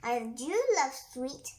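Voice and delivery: lightly voiced caterpillar, proud and pleased; boastful caterpillar. Caterpillar boasting to the animals, lightly voiced. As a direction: brag that you always come first. Caterpillar bragging, quoted in story.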